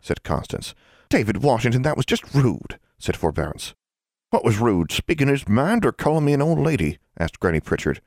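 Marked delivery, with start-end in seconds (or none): 1.1-2.8 high-pitched, shocked reproach; scolding. A narrator's reading. Girl to David after rudeness to elders, scolding. 4.3-7.0 lightly voiced old country woman, higher; a hint of a feisty mountain granny; challenging old granny. Granny questioning what was rude, lightly challenging.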